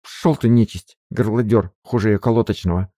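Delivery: a touch of angry scolding; mild cursing. Acted. Maid Marfa cursing the rooster, mock angry. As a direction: shoo off the rooster. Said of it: "выругалась".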